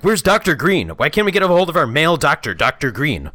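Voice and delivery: high, loud exasperated wail; mock indignant complaint. Mimics film characters complaining.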